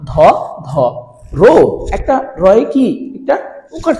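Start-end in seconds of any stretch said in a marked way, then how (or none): 0.1-1.5 ধ, ধ, রো said apart with pauses between them; teacher sounding out ধরণী's syllables. Shown as a demonstration. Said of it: "তাহলে দেখো".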